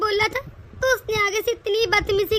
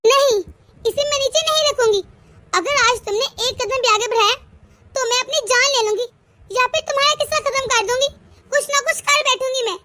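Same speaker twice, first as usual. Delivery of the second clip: ऊँची, ज़ोरदार गुस्से भरी धमकी; कैंची थामे पति को ललकारना; गुस्से में धमकी; 2 semitones higher than usual. Acted. पत्नी कैंची लेकर पति को धमकाती. (पति को कैंची दिखाकर ऊँची आवाज़ में गुस्से से धमकाना)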